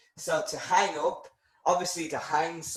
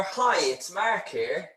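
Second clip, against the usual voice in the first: casual caller; 3 semitones higher than usual. Shown as a demonstration. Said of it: "the difference between the informal and the formal".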